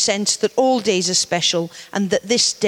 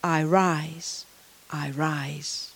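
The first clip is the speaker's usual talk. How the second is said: fading refrain; 5 semitones lower, 7 dB quieter, much slower than usual. Acted. Poem's closing refrain fading out.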